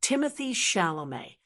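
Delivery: "Timothée Chalamet" modelled as "TIM-uh-thee SHAL-oh-may"; model pronunciation. Shown as a demonstration. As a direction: say "Timothée Chalamet" for learners to repeat. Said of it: "Try it with me".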